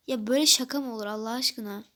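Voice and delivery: mildly hammed-up complaint about the prank; mock outrage. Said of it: "sinirden köpürmüş durumdayım". (şakaya kızan arkadaş, hafif sitem)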